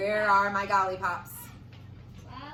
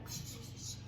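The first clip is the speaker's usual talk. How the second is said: soft unvoiced psh whisper; 16 dB quieter, faster than usual. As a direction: whisper it secretly. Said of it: "the boy whispered".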